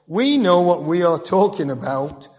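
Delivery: high, loud, self-important bragging; smug Pharisees boasting. Retold or imitated. Preacher voicing the Pharisees lording it over guards, pompous and loud. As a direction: crow about your own superiority.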